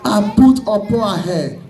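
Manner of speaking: forceful, emphatic sermon delivery; fervent preaching. Real, not acted. Preacher warning the congregation about false hair, fervent preaching.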